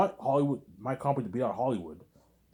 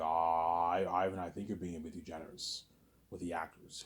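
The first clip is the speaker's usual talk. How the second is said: lightly voiced Peter, soft and low-key, quieter; a hint of a mild producer giving friendly advice; imitating Peter; 7 semitones lower, 9 dB quieter than usual. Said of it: "he's like".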